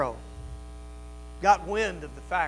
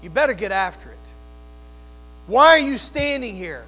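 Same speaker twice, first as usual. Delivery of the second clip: God's urgent command; 4 dB louder than usual. Acted. Preacher voicing God commanding Moses.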